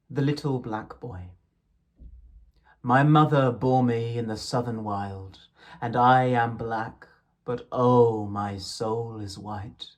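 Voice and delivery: measured, lilting verse reading; poem recitation. Acted. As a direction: read the poem with gentle rhythm. Reciting Blake poems aloud.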